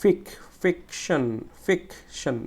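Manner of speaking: ফিকশন split, with a firm "fik"; stressed first syllable. Shown as a demonstration. Teacher drilling students, forceful first syllable in ফিকশন. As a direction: punch "fik", then pause in ফিকশন. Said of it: "ফিক বলতে গেলে আমাকে একটু জোরে".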